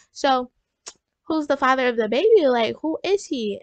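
mildly cross parental grilling, imitated; mad parents. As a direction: act out parents pressing for an answer. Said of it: "They was so mad, y'all".

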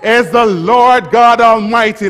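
high, loud preached cry; leading the church in crying out. Shown as a demonstration. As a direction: call it out to the rafters. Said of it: "Let's try it".

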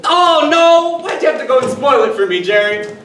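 high, loud dismayed wail; dismayed outcry. Acted. Man whose game result was just spoiled, loud high wail. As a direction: cry out that it's spoiled.

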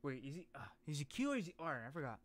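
normal talking voice

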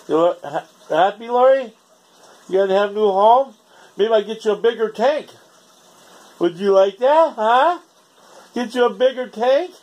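high sing-song voice for the fish; pet-talk voice. Real, not acted. Talking to his pet fish.

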